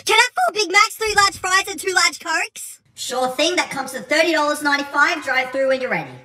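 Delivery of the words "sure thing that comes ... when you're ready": low, lightly voiced cashier; drive-through worker. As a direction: play a bored fast-food worker. Worker takes the order.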